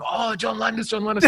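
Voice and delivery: high-pitched mock adulation; gushy impression of a fan; mock gushing fan. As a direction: imitate a starstruck fan, high and loud. Mimicking a gushing crew member.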